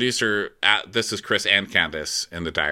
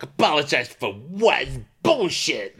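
higher-pitched indignant grumble; mock pissed off; 5 semitones higher, slower than usual. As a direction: imitate a man fuming over an apology. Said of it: "all pissed off, like".

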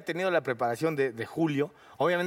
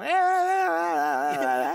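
high, slow drawn-out eh sounds; Julio-style stammer; 13 semitones higher, 5 dB louder, much slower than usual. Retold or imitated. The actor copying Julio to break ice. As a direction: start talking like Julio. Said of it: "lo empezaste a hacer como él".

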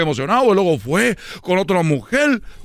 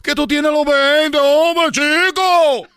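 put-on pleading child; 2 semitones higher, slower than usual. Son begs his father, building into a drawn-out whine. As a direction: beg dad to stop, rising into a whine.

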